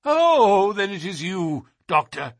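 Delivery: high, loud "oh" easing down; great heave of relief. A narrator's reading. Nervous man recognises his doctor in the dark, greatly relieved. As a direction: heave a relieved sigh into the words. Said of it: "with a great heave of relief".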